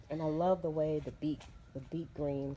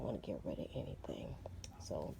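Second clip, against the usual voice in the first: whispering; 10 semitones lower, 11 dB quieter than usual. Real, not acted. Quiet aside to viewers.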